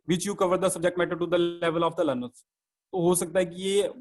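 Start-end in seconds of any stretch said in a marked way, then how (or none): 0.1-2.4 slow, drawn-out reading pace; slow demo. Shown as a demonstration. Teacher demonstrating a boring slow speed to trainees, slow. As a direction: drag each word slowly to show a sleepy pace. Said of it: "अगर आपकी speed थोड़ी ऐसी होगी".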